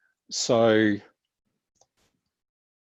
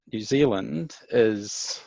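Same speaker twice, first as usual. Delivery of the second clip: New Zealand accent; slower than usual. Shown as a demonstration. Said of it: "this sort of accent".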